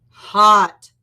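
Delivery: loud, drawn-out "Hot"; loud complaint. Acted. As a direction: groan it out loudly. Dinosaur complains of heat.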